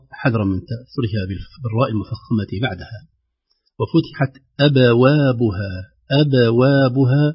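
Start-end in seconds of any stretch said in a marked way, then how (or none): 3.8-7.2 أبوابها with the first b bounced light and kept thin; light echoing b. Shown as a demonstration. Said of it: "مقلقلة، الباء الأولى بترقيقها".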